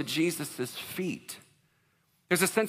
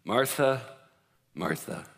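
gentle calling; 6 semitones lower, slower than usual. Acted. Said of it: "But the Lord answered her".

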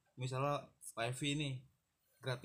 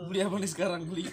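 laughing; 4 semitones higher, 7 dB louder, faster than usual. Acted. Repeats question, laughing, higher.

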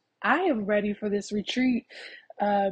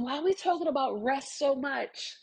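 imagined listener's questioning; 5 semitones higher than usual. Retold or imitated. Voicing the listeners' repeated question.

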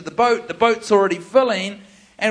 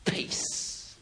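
whispered peace; 12 dB quieter than usual. Retold or imitated. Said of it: "It's like".

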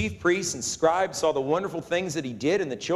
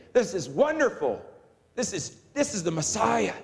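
put-on awestruck kids; 5 semitones higher than usual. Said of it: "these kids are thinking".

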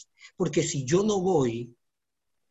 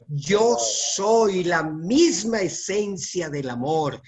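1 declaración lenta; slower than usual. Shown as a demonstration. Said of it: "diga conmigo".

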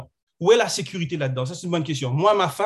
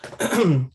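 coughing fit. Real, not acted. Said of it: "désolé, je tousse".

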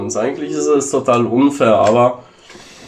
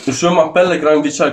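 mock French; 3 semitones higher than usual. Shown as a demonstration. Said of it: "kannst du das mal sagen".

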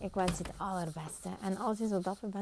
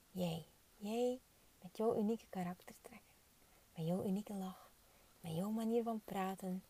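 guided meditation. Acted. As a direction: soothe them into seeing themselves. Leads a guided visualization.

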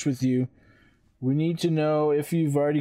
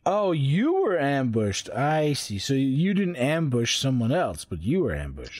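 sarcastic disbelief. Acted. Player mocks the hobgoblin's claim.

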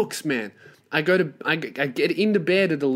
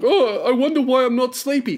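mock clueless whine; 8 semitones higher, 4 dB louder than usual. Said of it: "put the phone down and be like".

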